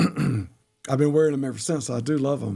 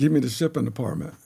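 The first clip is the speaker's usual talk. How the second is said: plain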